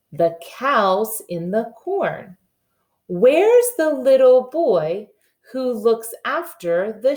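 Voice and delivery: slow, sing-song nursery rhyme reading; reading a poem to children. Acted. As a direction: read it slowly to little ones, each word clear.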